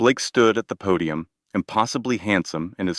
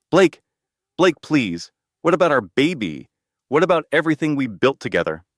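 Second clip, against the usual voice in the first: desperate pleading shout; 6 semitones higher than usual. A narrator's reading. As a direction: beg him at the top of your lungs. Wife begs as guards drag her.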